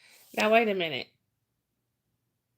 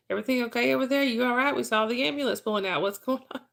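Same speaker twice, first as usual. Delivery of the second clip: lightly voiced nosy neighbors, higher pitch; worried neighbors calling; 4 semitones higher, faster than usual. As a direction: imitate concerned callers in a quick string of questions. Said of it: "I'd get about five phone calls".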